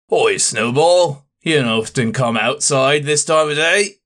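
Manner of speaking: a hint of a rough deckhand sweet-talking the ship's cat; mild cooing deckhand voice; friendly sailor.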